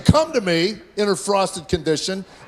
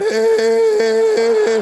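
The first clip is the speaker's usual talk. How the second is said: a loud, high yell; shouted hey; 6 dB louder than usual. Retold or imitated. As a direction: call out sharply like an annoyed teen. Son yelling at dad.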